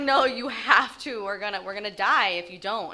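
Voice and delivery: her drunk mom begging an eight-year-old to drive, mock panic; mock panicked plea. Drunk mother urging her young daughter, loud. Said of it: "she's like".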